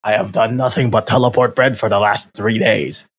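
lightly voiced army soldier; a hint of a barked soldier line. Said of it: "That's my best soldier impression".

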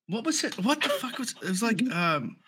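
talking with dip in lip. Real, not acted. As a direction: tobacco tucked in the lip. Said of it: "I got my spit bottle".

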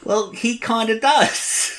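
high, slow lilting voice; leprechaun. Retold or imitated. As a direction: stay in the high Capote voice. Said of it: "You literally just sounded like a leprechaun".

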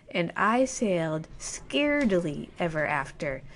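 undercut the fairy tale flatly; a wry, dropping anticlimax; deadpan twist. Shown as a demonstration. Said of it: "But this is not a fairy tale".

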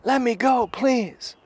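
high, squeezed-up imitation of a pinned man pleading; mock high-pitched plea; pleading captive. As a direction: beg in a high put-on voice. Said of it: "And the guy goes".

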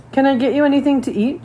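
a touch of nervous hostess. A narrator's reading. Mother offering food she lacks, a little nervous. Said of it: "sounding nervous".

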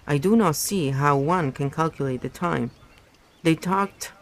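steady read-aloud novel narration; story narration. A narrator's reading. Reader narrating a novel chapter aloud, in storytelling voice. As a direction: read the book to your listeners, evenly.

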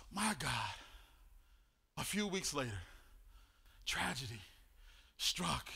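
soft, low, hushed telling; husband softly recalling the miscarriage; quiet testimony. Real, not acted. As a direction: hold back and speak softly of the loss.

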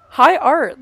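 mock grandeur. Real, not acted. Mock praise of Muppets film.

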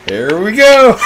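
high, loud laughing words; helpless, high-pitched laughing call. Real, not acted. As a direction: burst out through laughter. Breaking up laughing at squeaking.

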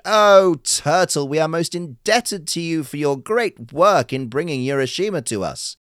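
high, loud grateful call; crying out thanks. Acted. Courtiers thank the turtle, high and loud. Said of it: "To the turtle they also cried".

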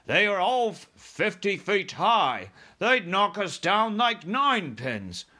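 loud, high, slow objection; military men protesting. Acted. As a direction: object as an alarmed officer.

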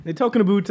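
"about" with an oo vowel, "aboot". Shown as a demonstration. Joking with coworkers about closures, "about" said as "aboot". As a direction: make "about" rhyme with boot, jokingly.

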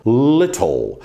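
little with a crisp T; little said with a clear T; British little. Shown as a demonstration. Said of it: "no britânico é little". (little britânico, T bem pronunciado)

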